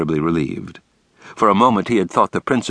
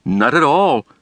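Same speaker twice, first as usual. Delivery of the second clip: higher, serious denial; grave; 7 semitones higher, 4 dB louder than usual. A narrator's reading. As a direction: say it weighty and earnest. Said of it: "said the principal gravely".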